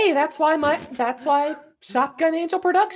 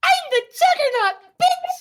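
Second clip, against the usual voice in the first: very high, neck-straining, throat-straining put-on character voice; 12 semitones higher, 3 dB louder than usual. Voice actor performing the character Puppy Smiles; Puppy Smiles voice. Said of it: "that voice kills my neck".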